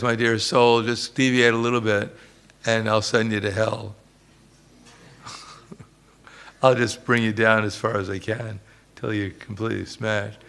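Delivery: mock menace, openly promising ruin; menacing Maya. Speaker voicing Maya openly threatening the soul, mild mock menace. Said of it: "Maya never says".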